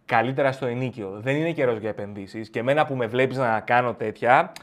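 low, patronizing counsel; lecturing a poorer friend, low and smug; condescending advice. Acted. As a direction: talk down to him like a tycoon.

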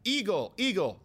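high squawking caw; mock bird poetry, cawing like a bird; mocking spoken-word bird call; bird call impression. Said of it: "he goes, spoken bird poetry".

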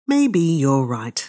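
slow, placating agreement; calm the old drunk down gently; pacifying. Acted. Blore soothing the drunk old man, slow and placating. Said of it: "said Mister Blore pacifically".

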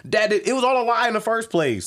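high, loud stammered protest; retold defensive outburst, pitch way up; mock exasperation. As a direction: protest in comic frustration. Retold protest at bad-friend accusation.

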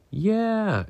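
high, drawn-out cheer of "yeah"; group exclamation. A narrator's reading. The young fish answer the shark's pirate ship offer, exclaiming. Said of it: "exclaimed almost all of the fish".

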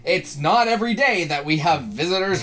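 hammed-up British accent. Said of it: "in his best British accent".

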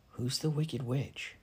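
soft, slow aside; murmur. A narrator's reading. Narrator asks Sam about the old seer, murmuring softly. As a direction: murmur it discreetly to a neighbour. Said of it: "I murmured to Sam".

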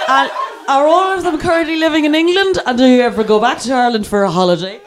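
high start, hammed-up curiosity; feigned interest. Sick passenger distracting the driver, over-keen. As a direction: keep him talking with over-polite questions.

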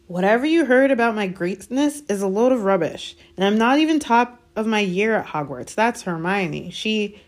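lightly voiced embarrassed boy; a hint of an awkward young boy; boy's voice. A narrator's reading. Harry voiced.

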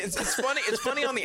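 giggling admission; laughing. Real, not acted. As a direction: laugh as you give in. Admits it is funny.

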